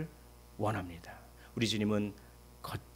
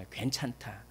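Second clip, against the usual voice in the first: reassuring; 7 dB quieter than usual. Acted. Simple comfort example.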